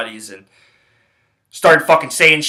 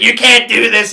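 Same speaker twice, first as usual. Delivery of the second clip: raised-pitch mock protest; retold yelling; 7 semitones higher than usual. Buddy protesting as guards pull him back, imitated yelling. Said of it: "He's, like, fucking yelling".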